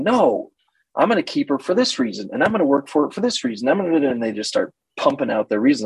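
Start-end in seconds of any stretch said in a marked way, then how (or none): 0.0-4.1 eager client. Retold or imitated. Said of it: "they start going".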